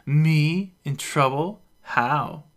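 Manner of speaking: loud, high tipsy disbelief; unconvinced. A narrator's reading. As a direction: scoff like an unconvinced drunk.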